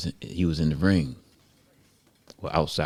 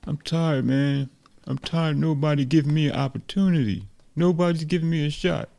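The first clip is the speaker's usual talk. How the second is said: frustrated; 10 semitones higher than usual. Acted. Ruben vents to Sabata about being passed over, high frustrated protest. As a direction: protest in a high voice, growing more insistent. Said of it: "Ruben just was, you know, frustrated".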